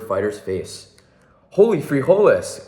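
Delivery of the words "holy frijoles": excited cry. Acted. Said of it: "cried Skipito".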